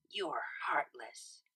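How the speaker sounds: slow, breathy whispered sulk; sulky whisper. A narrator's reading. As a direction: pout it out. Sulky accusation from the couch.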